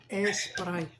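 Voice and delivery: "A Sprite" with an E sound before the S, as a Spanish speaker says it; Spanish accent imitation. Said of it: "they always put an E before the S".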